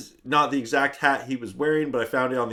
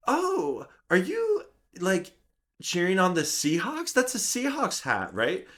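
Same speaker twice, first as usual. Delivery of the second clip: light cashier voice; 4 semitones higher, 3 dB quieter than usual. Retold or imitated. Voicing teenage cashier.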